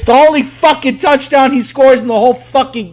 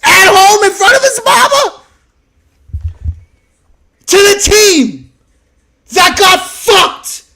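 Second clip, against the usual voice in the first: wild unhinged ranting; 5 semitones higher than usual. Real, not acted. Ranting about Bills loss.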